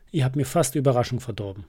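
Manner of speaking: fast, lightly voiced scolding; a touch of telling-off, hurried; mild scolding. Sheep telling off the friends, mild fast scold. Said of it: "schimpft das Schaf".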